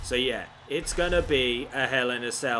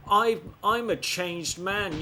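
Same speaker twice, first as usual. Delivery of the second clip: higher, slow, mock-earnest pledge; mock Flair; 5 semitones higher than usual. Player quoting the wrestler who betrayed him, mocking. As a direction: lightly mimic a reformed man's promise. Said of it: "Flair's like".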